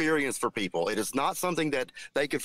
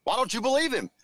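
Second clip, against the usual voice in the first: higher, mocking know-it-all voice; mocking chat user; 8 semitones higher than usual. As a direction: sneer at the doubter like a smug fan. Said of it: "this retard in chat is going".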